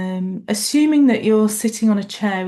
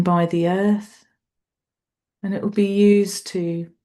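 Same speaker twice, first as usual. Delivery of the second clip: unhurried meditation guide, long pauses between phrases; guided meditation. Real, not acted. Meditation teacher guiding a group through an appreciation body scan, unhurried guided meditation. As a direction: lead a body scan, leaving space after each thought.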